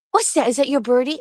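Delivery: high, lilting questions to a dog; playful pet talk. Real, not acted. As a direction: coo high questions at the pup.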